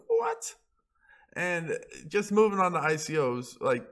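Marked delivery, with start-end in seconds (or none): 0.1-0.5 squeaky high disbelieving what; a startled high yelp of what; shocked what. Retold or imitated. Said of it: "I was like".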